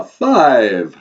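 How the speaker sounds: put-on big Transylvanian accent with a long fall; Count. Count starting the count over, booming vampire accent. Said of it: "your vampire accent".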